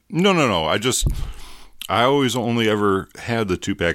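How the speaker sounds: high, loud insistence; emphatic. Real, not acted. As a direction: insist hard, pitch up. Emphatic denial.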